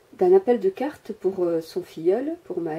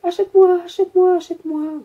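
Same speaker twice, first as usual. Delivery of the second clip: high, loud pleading voice, fading at the end; a shop item crying out to be bought; cabinet begging; 10 semitones higher, 6 dB louder than usual. Retold or imitated. The little cabinet at Emmaüs begging her, high loud plea. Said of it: "Et elle me criait".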